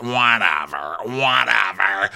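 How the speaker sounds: drawn-out mock dismissal; put-on, languid brush-off; Meredith voice. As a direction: stretch out each word dismissively. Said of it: "and she's like".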